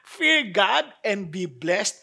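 Fear God and be blessed turned into a slow incredulous question; mock disbelief. Shown as a demonstration. Preacher echoing the title as a puzzled listener, mock disbelief. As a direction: echo the title back as if you can't believe it.

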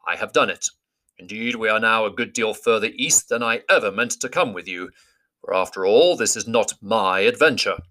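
put-on steady wise old wizard; calm gentle wise voice. Gandalf speaks to dwarves.

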